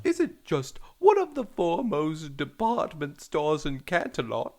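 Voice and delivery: British mother voice. Acted. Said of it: "a female doing a British accent".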